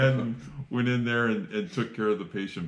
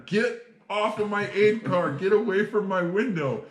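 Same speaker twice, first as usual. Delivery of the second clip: higher-pitched mock yell at the window; retold yell; 9 semitones higher than usual. Medic yelling at bloody woman to get off the car, mock yell. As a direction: shoo her off the car, half-yelled. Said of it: "yelling at her".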